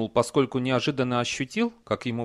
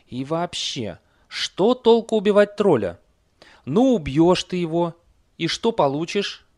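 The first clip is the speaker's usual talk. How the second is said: high, louder horse voice; argumentative talking horse; 7 semitones higher, 6 dB louder than usual. A narrator's reading. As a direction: reason with the rider in a high voice. Horse arguing with rider. (высокий голос спорящей лошади)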